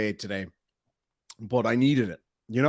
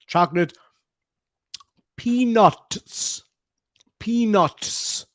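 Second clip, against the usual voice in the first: mouth full; 7 semitones higher, 4 dB louder, much slower than usual. Real, not acted. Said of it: "still hard to say with a mouthful".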